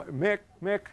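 flustered call for help. Retold or imitated. Calling out after spilling juice.

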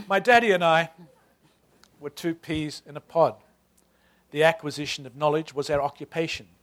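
reading with a light Australian turn on the narrator's voice; just a hint of an Australian accent, read with relish. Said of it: "I give it a sort of a bit of an Australian turn".

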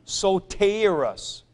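soterus said slowly, each syllable drawn out with a long final s; correct soterus. Shown as a demonstration. Teacher stresses the correct soterus for the class. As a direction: lean into the right soterus slowly. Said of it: "but soterus".

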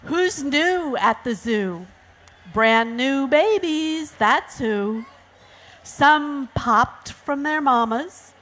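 put-on lively reading to children; sing-song storybook read; picture-book narration. A narrator's reading. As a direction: read a rhyming picture book to kids, stretching key words. Reads picture book aloud.

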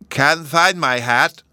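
put-on a small child mourning his lost hat; slow and forlorn; sad. A narrator's reading. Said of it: "the little fellow sadly replied".

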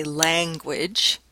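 "language" with the flat vowel of "cat"; short-a pronunciation. Shown as a demonstration. Lecturer showing students the first option, "language" with the cat vowel. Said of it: "have an a in that position".

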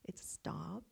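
soft, kind whispered stop; the friendly version of stop; gentle stop. Shown as a demonstration. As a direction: say stop tenderly. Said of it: "they were very gentle".

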